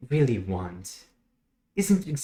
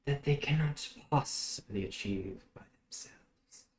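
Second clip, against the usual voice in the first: lightly voiced mysterious host, measured with long pauses; otherworldly host; 4 dB quieter than usual. Host explains to a guest how they change the unhappy, measured and mysterious. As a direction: explain your work softly, savoring each pause.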